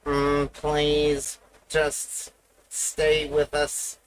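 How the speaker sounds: slow, even robotic announcer; stand-by message read like a machine, slow. Pretend. Streamer faking a robot technical-difficulties announcement, slow and even. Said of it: "sound like that Bugs Bunny robot".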